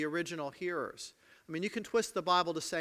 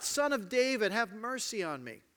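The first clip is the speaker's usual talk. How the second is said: shouting louder; 2 semitones higher than usual. Acted. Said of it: "starts shouting louder".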